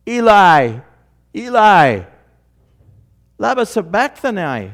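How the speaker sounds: loud, high, anguished scream from the cross; anguished cry. Acted. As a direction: cry out to heaven in agony. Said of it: "who is screaming".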